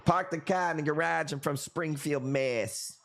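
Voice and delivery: light mock Boston accent, dropped r's; a playful hint of a Boston local. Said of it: "That's how he, they say it out there".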